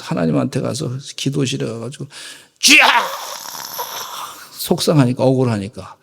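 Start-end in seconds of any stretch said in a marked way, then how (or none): 2.6-2.9 loud anguished cry; 주여 하고 부르짖는 외침; crying out to God. Retold or imitated. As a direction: cry out to the Lord.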